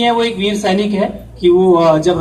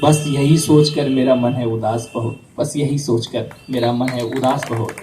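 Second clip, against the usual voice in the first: poem recitation. Acted. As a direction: recite each line, then let the last fall away. Recites farewell verses of the letter. (कविता पाठ, अंत में धीमा स्वर)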